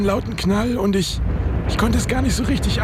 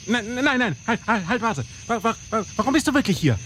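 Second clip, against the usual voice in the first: pleading in panic; 3 semitones higher, 3 dB quieter than usual. Acted. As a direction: beg for your life. Begging not to be shot.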